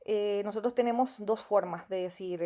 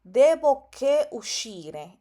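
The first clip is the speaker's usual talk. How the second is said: mock student, louder and slow; imitating a student's error; 4 semitones higher, 7 dB louder, much slower than usual. Teacher mimics a student's common error, slow and loud. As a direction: say the student's mistake, slowly and loudly. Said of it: "otro error que también veo que muchos estudiantes cometen".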